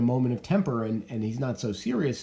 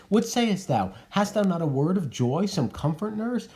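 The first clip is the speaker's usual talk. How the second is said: higher, pleading and anguished; desperate Juliet; 6 semitones higher than usual. Acted. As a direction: cry out to the nurse for comfort. Reads Juliet's desperate appeal.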